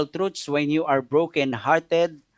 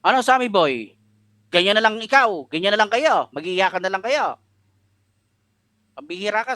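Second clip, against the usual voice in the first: a firm mother's rebuke, a bit louder; bold mother; 3 semitones higher, 3 dB louder than usual. Retold or imitated. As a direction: scold your grieving son to snap him out of it. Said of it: "Yung nanay ko malakas ang loob eh". (matapang na sermon ng nanay)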